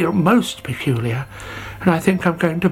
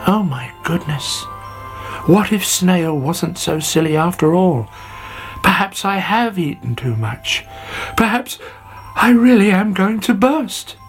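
acted alarm, climbing higher as it goes; worried caterpillar; 6 semitones higher than usual. Sammy fears he will burst, building storybook alarm. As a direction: let the dread build in rising pitch.

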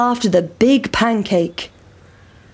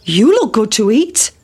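cockerel. Acted. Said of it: "said the cock".

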